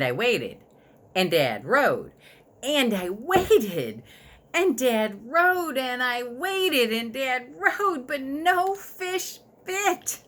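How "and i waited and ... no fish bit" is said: drawn-out boredom. A narrator's reading. Boy bored, endless waiting.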